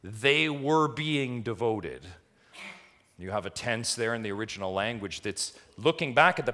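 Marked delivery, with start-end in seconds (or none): 0.0-2.0 slow, weighted stress on "they were being devoted"; "they were being devoted" drawn out for emphasis; emphatic raw restatement. Shown as a demonstration. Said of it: "if we were to put it very raw".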